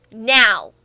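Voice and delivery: lightly imitated stern order; stern command. Imitating a German man ordering the streamer, mildly stern. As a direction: give a low, one-word order, mimicking a stern man. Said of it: "stern German accent, look at you and go".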